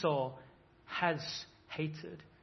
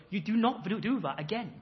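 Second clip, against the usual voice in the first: stern controlled anger; 4 semitones higher than usual. Retold or imitated. A father firmly warns his young son, in controlled anger. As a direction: scold with anger held in check. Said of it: "There should be some controlled anger to go".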